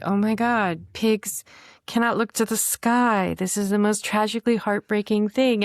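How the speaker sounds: high, gushing mock sympathy. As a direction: overdo the pity like a sentimental fan. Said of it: "people are like".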